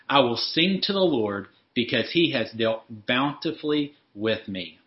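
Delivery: measured, deliberate psalm reading; scripture reading. Acted. Preacher reads David's psalm to the congregation, measured scripture reading. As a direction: read it aloud in deliberate phrases, pausing between verses.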